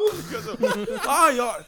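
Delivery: giggling speech; laughing. Real, not acted. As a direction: laugh through the words. Laughing during story.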